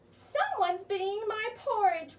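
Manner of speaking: a hint of a gruff bear father; growling Papa Bear. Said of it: "growled Papa Bear".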